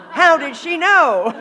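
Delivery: laughing, slow. Real, not acted. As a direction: laugh through the words. Laughing at grandmother's prediction.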